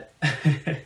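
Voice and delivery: high giggle; caffeine giggle. Real, not acted. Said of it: "lit, quote unquote, on caffeine".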